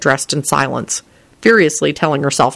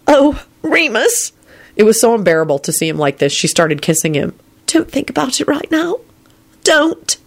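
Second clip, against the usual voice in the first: pleading; 7 semitones higher than usual. A narrator's reading. Elizabeth comforting him.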